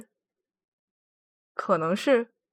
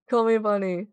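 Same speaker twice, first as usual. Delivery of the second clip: cutesy bunny voice. Pretend. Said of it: "I don't typically talk like that".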